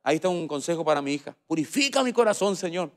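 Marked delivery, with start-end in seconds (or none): 1.5-2.9 grandmother's voice. Retold or imitated. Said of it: "como decía la abuela".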